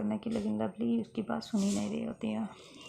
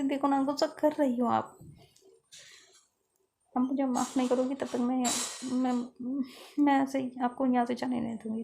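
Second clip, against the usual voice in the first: retold insisting; 3 semitones higher, 3 dB louder than usual. Fiza blocking Lovely's exit, loud insistent pleading. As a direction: refuse to let her leave, voice pushed up.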